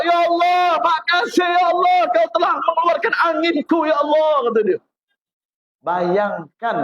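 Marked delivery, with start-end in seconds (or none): 0.0-4.5 shouted, higher thanks to God; the relieved man shouts his thanks after the toilet; joyful shout. Retold or imitated. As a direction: cry out your thanks to Allah. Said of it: "Dia teriak".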